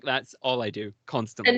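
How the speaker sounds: usual speaking voice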